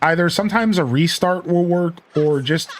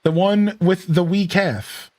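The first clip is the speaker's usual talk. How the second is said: slow Scottish punchline, pitched up; Scottish accent; 5 semitones higher, slower than usual. Acted. Game character delivers a cow joke punchline, Scottish accent. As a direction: draw out the punchline with a Scottish lilt. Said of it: "It's the Scottish accent makes the joke".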